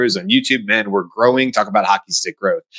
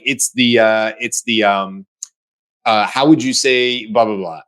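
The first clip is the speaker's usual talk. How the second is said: hesitant, halting search for the word; struggling language learner; slower than usual. Acted. Learner to bakery avatar, struggling for the word, hesitant. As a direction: feel around for a word, with ums and pauses. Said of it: "if I struggle and I'm like".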